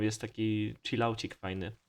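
usual speaking voice

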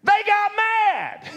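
high, loud and slow: They got mad; plain retelling. Shown as a demonstration. Preacher translating the verse for the church, loud and slow. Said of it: "What did it say?".

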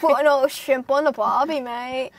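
hammed-up Australian accent; mock Aussie stock-phrase voice. Joining a co-player's joke in a mock Australian accent. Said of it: "this is the Australian accent".

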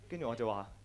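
ordinary talk

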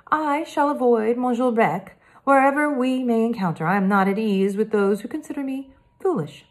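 lightly voiced polite French boy detective; a hint of a careful French accent, earnest; Hector, French boy.

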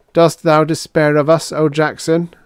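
high, level robot plea; mildly hesitant liturgical question. A narrator's reading. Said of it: "asked seventy-six hesitantly".

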